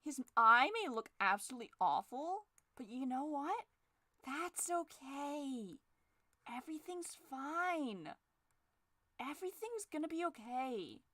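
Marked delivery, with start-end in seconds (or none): 4.2-11.0 softer, slow, resigned okay; hushed fake calm. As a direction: say it quietly as if soothing yourself. Quiet resigned version of bit.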